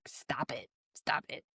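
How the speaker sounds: hushed mock whisper; wife whispering to her husband to stop. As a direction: whisper urgently so nobody hears. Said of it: "she's trying to be like".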